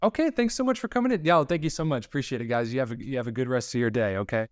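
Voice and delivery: an overly sweet goodbye from a casting director. Acted. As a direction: dismiss them with bright fake cheer. Casting director dismisses actor.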